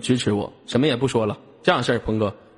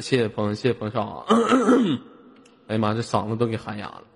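喊哑了的嗓音，低声; 嗓子沙哑，说话有点费劲; 嗓子喊哑了; 5 semitones lower than usual. Real, not acted. (喊了半天嗓子哑了)

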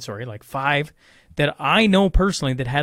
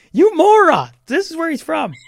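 high-pitched mock outburst; exasperated listener yelling; 14 semitones higher, 5 dB louder than usual. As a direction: yell at the radio like a driver who knows the answer. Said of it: "somebody is driving along the highway right now going".

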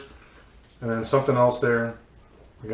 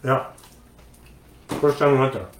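chewing while talking. Real, not acted. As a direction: mouth full of food. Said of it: "Sorry, I'm chewing my mouth".

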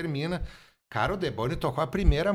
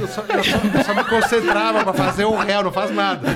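laughing; 5 semitones higher, 4 dB louder than usual. Real, not acted. Laughing while recalling the show.

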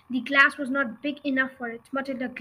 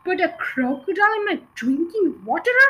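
yelled; 4 semitones higher, 4 dB louder than usual. Acted. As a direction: spit out the accusation in disbelief. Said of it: "yelled back".

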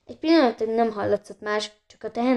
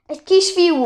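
excited cry; 9 semitones higher, 6 dB louder than usual. Acted. Excited repeat of the news.

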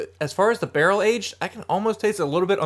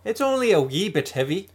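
mock Irish lilt; hammed-up Irish voice; Irish accent; 4 semitones higher than usual. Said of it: "Well, that's Irish".

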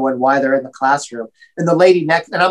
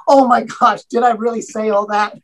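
embarrassed shock; 5 semitones higher than usual. Retold or imitated. Caught out, embarrassed panic.

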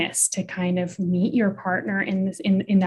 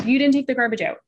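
raised-pitch accusation; criticizing; 5 semitones higher, 3 dB louder, much faster than usual. Shown as a demonstration. Partner criticizing over the garbage, mildly accusing. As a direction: lightly accuse your partner. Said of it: "say your partner does criticize".

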